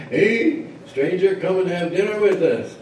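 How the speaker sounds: high-pitched calling out; hollering. Acted. Another village hails the stranger for dinner, hollering. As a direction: hail him in a high holler. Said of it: "he hollered".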